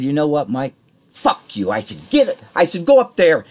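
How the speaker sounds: reliving the blow-up at full volume; retold furious yell. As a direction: shout the curse out, half laughing at yourself. Retold cursing at the boss.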